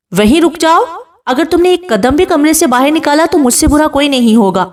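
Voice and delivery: husband threatens the bride leaving the room, angry. Acted. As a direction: command her to freeze where she stands. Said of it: "دخان کھڑے ہو کر غصے سے کہتا ہے".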